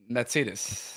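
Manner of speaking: "Mercedes" as "mair-TSAY-des"; German pronunciation. Shown as a demonstration. German echoing host's girls' name, German pronunciation. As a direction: say "Mercedes" with German "ts" and short ending. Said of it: "It's Mercedes-Benz".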